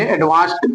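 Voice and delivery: एडवांस्ड with a T ending; correct pronunciation. Shown as a demonstration. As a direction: finish एडवांस्ड on T. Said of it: "टा ही बोलेंगे". (एडवांस्ड के अंत में 'ट' की आवाज़)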